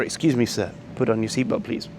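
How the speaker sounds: softly courteous, unhurried asking; polite request. Retold or imitated. Asian flight attendant politely asking a passenger, courteous. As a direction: gently ask with excuse me and please. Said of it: "You know, or".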